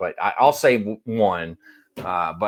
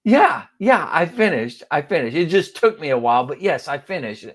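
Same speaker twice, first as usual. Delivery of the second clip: exasperated insisting; 5 semitones higher, 4 dB louder than usual. Retold or imitated. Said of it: "And I was like".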